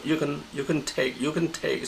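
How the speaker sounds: "you can" at mid pitch, "take" stepped up; mid-to-high pitch. Shown as a demonstration. Teacher echoing the recorded example, mid then high on "take". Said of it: "mid, and then take, it goes up".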